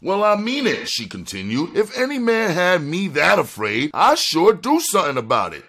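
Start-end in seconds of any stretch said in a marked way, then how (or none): 0.0-0.9 very high-pitched insistence; defiant woman's retort; insistent woman. Acted. Donna insists in the quarrel. 1.8-5.6 high-pitched, boastful defiance; mouthy woman goading them; defiant woman. Acted. Donna boasts defiantly in the quarrel.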